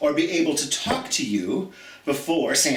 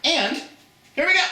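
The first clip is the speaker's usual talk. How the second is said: much higher and louder, showman kickoff; excited announcement; 13 semitones higher, 3 dB louder, much faster than usual. Real, not acted. Teacher kicking off silly holiday jokes for her class, excited. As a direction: announce the jokes like a game-show host.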